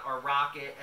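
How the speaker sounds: a bad, hammed-up British accent on rocket; self-mocking British accent on rocket. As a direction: say rocket the way a Brit would, badly. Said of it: "horrible, horrible British accent".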